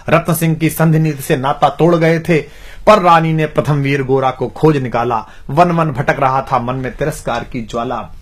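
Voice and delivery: measured declamation of heroic verse; rhythmic Hindi verse recital; poem recitation. Acted. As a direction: recite like a poet, phrase by phrase.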